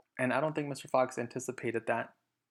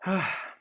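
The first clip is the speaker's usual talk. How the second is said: sad sigh; 7 semitones higher than usual. Acted. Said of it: "and sighed".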